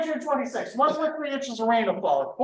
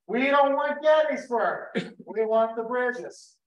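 slow, high call of a Confederate officer; mock Confederate command; 3 semitones higher, slower than usual. Guide retelling the Confederate aim, slow emphatic mock order. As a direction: bark it out slowly like a general's order. Confederates voiced deciding their target.

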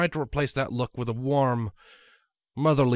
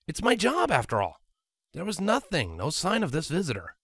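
put-on slightly higher, brisk young dragon voice; mildly raised, quick-talking dragon; Spike's voice; 5 semitones higher than usual. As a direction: voice Spike, a bit exasperated.

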